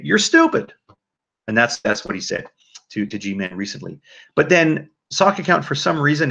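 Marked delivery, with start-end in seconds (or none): 0.0-0.7 blunt retold insult. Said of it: "he'll just come out and say".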